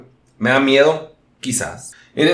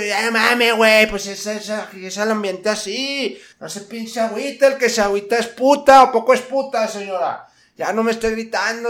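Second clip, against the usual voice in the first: high, taunting cholo voice; mock the señora like a cocky cholo; lightly voiced cholo taunt; 8 semitones higher than usual. Cholo answers the lady.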